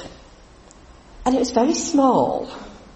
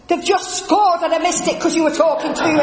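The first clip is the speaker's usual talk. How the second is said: higher, mock-exasperated complaint; mock grumble from the husband; a hint of a fed-up Richard; annoyed husband; 8 semitones higher than usual.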